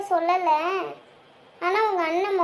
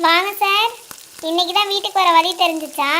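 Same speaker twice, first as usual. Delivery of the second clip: mock-formal greeting, a bit louder; sarcastic welcome; 2 semitones higher, 4 dB louder than usual. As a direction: needle him for coming home late. Wife teasing late-returning husband. (கிண்டலான வரவேற்பு)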